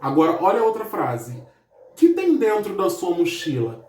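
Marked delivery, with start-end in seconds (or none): 2.0-3.8 "Que" reduced to a quick "ki"; unstressed "Que" leaning on the next word; weak, unstressed que. Shown as a demonstration. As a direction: glide over "Que" into "tem dentro". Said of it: "pronunciado de uma forma bem fraca".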